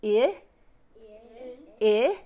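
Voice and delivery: short vowel "I" as in inch; vowel sound demo. Shown as a demonstration. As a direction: say "I" like the start of inch. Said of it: "The letter I".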